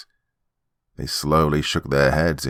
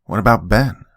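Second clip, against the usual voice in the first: curt; 3 semitones higher, 5 dB louder than usual. Acted. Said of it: "she asked curtly".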